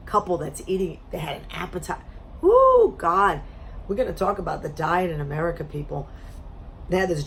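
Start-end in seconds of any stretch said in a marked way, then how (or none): 2.4-2.9 high woo. Real, not acted. Reaction to couple's appetite.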